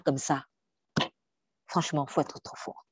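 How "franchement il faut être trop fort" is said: hushed. Real, not acted. Awed aside about God's strength.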